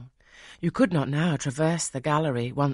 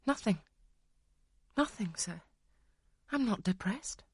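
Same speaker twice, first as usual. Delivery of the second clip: higher; 7 semitones higher, 6 dB quieter than usual. Acted. Jane denies tears, near crying.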